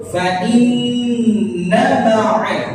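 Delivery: "inna" with a held nasal hum, short vowel after; slow chant, humming the nn of "inna"; ghunnah on nun. Shown as a demonstration. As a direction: hold nn in "inna", keep "na" short. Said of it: "ada nun musyaddadah di situ".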